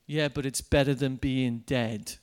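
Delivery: the grim line repeated, lightly voiced; a hint of his deadpan; gloomy retort, retold. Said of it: "this guy's just said to me".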